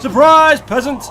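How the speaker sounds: high, loud gloating villain; spring out on them, sneering; villain shout. Acted. Ambushing an enemy in the game.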